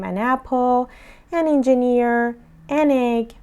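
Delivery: slow, clear demo of an linked to the noun; an said as one with the next word. Shown as a demonstration. Teacher modelling an before vowels, slow and clear. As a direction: join an to apple, engineer, egg slowly. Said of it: "ما باید حتماً ان استفاده کنیم".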